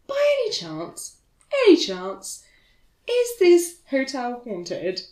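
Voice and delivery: high, strained weary question; tired voice. Retold or imitated. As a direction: ask it wearily, drawing out the end. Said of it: "tired voice that you can do".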